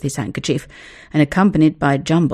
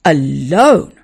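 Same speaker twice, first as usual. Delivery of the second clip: dismayed gasp; 7 dB louder, much slower than usual. A narrator's reading. Boy dismayed at being told to saw logs, gasping. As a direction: gasp in disbelief at the chore. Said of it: "gasped William".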